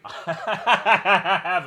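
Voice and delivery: slow, loud, laughing it out; repeating the joke while cracking up. Shown as a demonstration. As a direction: giggle through the joke, drawn out. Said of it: "but I have a good reason for it".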